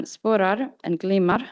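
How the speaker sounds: "sporar and glimar" slowly, each with accent two; careful Swedish "sporar and glimar", slow and melodic; Swedish pitch accent. Shown as a demonstration. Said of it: "demonstrate the pronunciation of these words".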